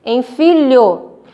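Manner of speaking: FILHO slowly split into fi, lho; careful lh sound. Shown as a demonstration. Teacher reading the similar-sound example, slow syllables. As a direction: draw out FILHO to show lh. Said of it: "Porque os sonzinhos".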